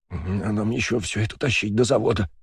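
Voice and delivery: голос дрожит от холода; зубы стучат на каждом слове; стуча зубами. Acted. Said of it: "стуча зубами". (стуча зубами от мороза)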